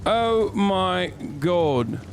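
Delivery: high-pitched mock Scouse lad, cocky and swearing; squeaky put-on Liverpool bravado; Kuno voice. Streamer voicing his character Kuno while fighting, high mock Scouse. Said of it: "I'm trying to do a Kuno voice".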